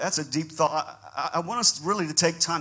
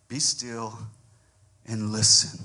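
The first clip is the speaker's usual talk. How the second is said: calm voice of God; 4 semitones lower than usual. Retold or imitated. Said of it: "to hear the shepherd's voice say".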